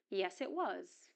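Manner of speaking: "was" with its full vowel; strong form of was. Shown as a demonstration. Teacher repeats the short answer, strong "was". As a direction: finish on a clear, full "was". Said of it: "and in strong form".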